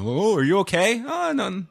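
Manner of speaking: high-pitched, apologetic Canadian fussing; overly polite Canadian. Retold or imitated. Moviegoers fussing over spilled pop, overly polite Canadian. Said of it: "the most Canadian interaction".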